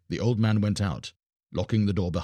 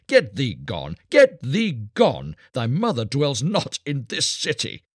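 high, scornful soldier's jeer; mocking cry; 6 semitones higher, 4 dB louder than usual. A narrator's reading. Soldier drives the beggar from the city gate, loud mockery. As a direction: jeer loftily, stretching out the insults. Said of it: "But they mocked him".

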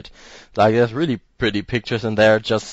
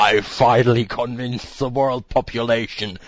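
evil overlord. Pretend. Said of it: "some sort of evil overlord".

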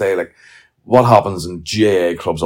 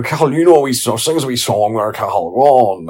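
pub crowd coaxing; 4 semitones higher, 6 dB louder than usual. Retold or imitated. Drinkers coaxing young Cathal to sing, loud and high. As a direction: egg the kid on to sing.

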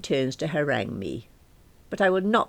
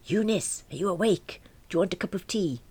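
a light hint of a higher, gentle old man; Dad's hushed wake-up; 6 semitones higher than usual. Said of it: "I hear him whispering".

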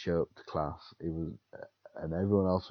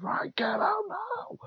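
whispered mock fury; much slower than usual. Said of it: "he went".

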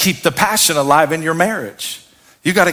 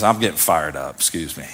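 catching breath; 11 semitones lower, 6 dB quieter, faster than usual. Real, not acted. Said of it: "I'm a little passionate today".

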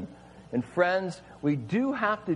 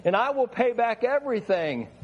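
mild pleading, slightly raised; begging servant; 5 semitones higher than usual. Acted. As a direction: promise to pay, pleading. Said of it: "he begged".

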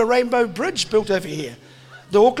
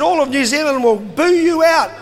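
mocking mates; 3 semitones higher, 4 dB louder than usual. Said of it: "they laughed and said".

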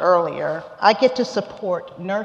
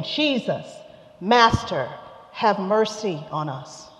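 a moderate call for mercy, pitched up on Jesus. Acted. Ten lepers calling to Jesus from afar, mildly raised plea. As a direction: lepers calling from a distance, pleading lightly. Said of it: "they called out".

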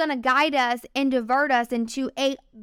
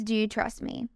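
softer, lower voice of God; God's voice; 4 semitones lower, 6 dB quieter than usual. Retold or imitated. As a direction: quote God quietly and low. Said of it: "something that God has said to me".

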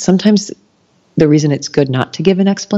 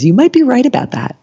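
lightly voiced teacher; 9 semitones higher than usual. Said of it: "she always says".

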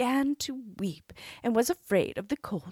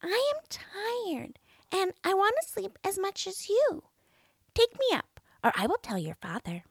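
whining frog; 13 semitones higher than usual. A narrator's reading. Frog creeping up to the princess, high and whiny. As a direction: threaten sweetly as the frog.

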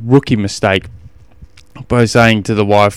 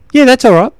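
put-on high, breezy boy; keen kid voice; 12 semitones higher, 5 dB louder than usual. Ten-year-old son shrugging off distance, high and breezy. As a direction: brush it off like an eager son. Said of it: "And he goes".

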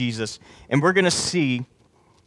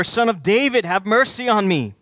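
raised-pitch plea, mildly projected; crying out; 5 semitones higher than usual. Acted. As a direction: plead more insistently, without shouting. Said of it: "he kept crying out all the more".

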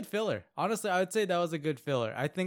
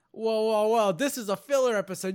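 higher, louder laughing scold; hammed-up scolding of the show, cracking up; mock outrage; 6 semitones higher, 7 dB louder than usual. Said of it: "I was like".

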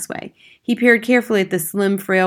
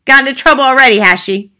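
loud, higher-pitched dismissive father; brusque father; 7 semitones higher, 11 dB louder, faster than usual. Acted. Father to his daughter's teacher at the door, brusque. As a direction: demand it loudly and scornfully.

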